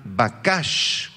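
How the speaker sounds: bakash with stress on the final syllable; stress on second A. Shown as a demonstration. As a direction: say bakash as ba-KASH. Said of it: "acento en la segunda A".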